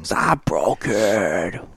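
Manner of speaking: Impression of a singer. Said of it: "I can't do him all that well".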